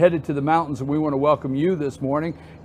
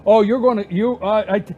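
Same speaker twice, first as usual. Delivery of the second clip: much higher, playful mock complaint at the crew; mock exasperation; 11 semitones higher than usual. Real, not acted. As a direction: needle your producer in a high, exasperated voice. Teasing Cole about his job.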